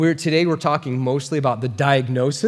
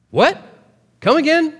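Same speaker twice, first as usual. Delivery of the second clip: much higher, louder disbelief; incredulous shock; 12 semitones higher, 4 dB louder than usual. Retold or imitated. Preacher voicing the crowd's shock at Paul, incredulous. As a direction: gasp out the objection in disbelief.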